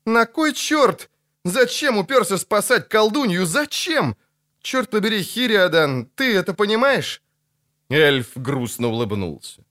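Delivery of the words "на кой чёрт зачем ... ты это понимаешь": high, exasperated wail; frantic high-pitched questioning; distraught outburst. Acted. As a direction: plead in a high, stretched voice. Lutik laments his friend's folly.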